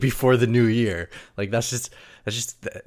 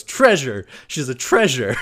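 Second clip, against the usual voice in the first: mock correction; 4 semitones higher, 7 dB louder than usual. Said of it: "she goes".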